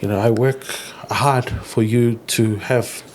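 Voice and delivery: slow, lightly voiced earnest father; measured fatherly speech with weighty gaps; dad impression. Son imitating dad explaining his hard work, dad impression. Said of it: "I'm gonna do my best dad impression".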